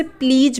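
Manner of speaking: प्लीज ending in a "j" sound, as "pleej"; mispronounced प्लीज, closing on j as in "jug"; common mispronunciation. Shown as a demonstration. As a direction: say प्लीज with j in place of the final z. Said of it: "जो कि गलत है".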